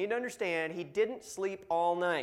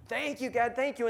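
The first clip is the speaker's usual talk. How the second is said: a mildly raised, happy cry of thanks to God; joyful thanks; 7 semitones higher, 4 dB louder than usual. Retold or imitated. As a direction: imitate a new believer bursting with thanks. New convert rejoicing in prayer.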